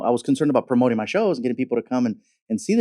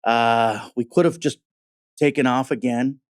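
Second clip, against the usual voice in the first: mocking pilot voice. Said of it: "I made fun of him".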